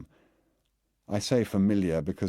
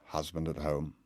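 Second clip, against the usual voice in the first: croaked; 4 dB quieter than usual. Acted. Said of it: "I croaked".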